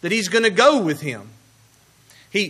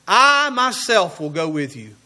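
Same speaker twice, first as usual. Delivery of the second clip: "I" stretched and leaned on, then "myself" stressed; 3 semitones lower than usual. Shown as a demonstration. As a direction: press on "I myself", let the rest fall away. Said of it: "he emphasizes his presence".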